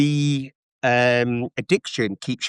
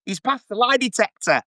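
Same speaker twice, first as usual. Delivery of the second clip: Jeremy Kyle impression; 8 semitones higher than usual. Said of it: "Jeremy Kyle would have come out and gone".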